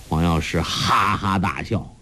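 ordinary delivery

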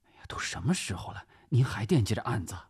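mildly aggrieved, hurried remark. Acted. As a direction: fret at the boss in a quick voice. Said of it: "于肖南满是委屈的样子".

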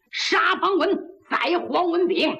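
bellowed battle cry; angry shout. Acted. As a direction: yell it to the whole room. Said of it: "就这一嗓子".

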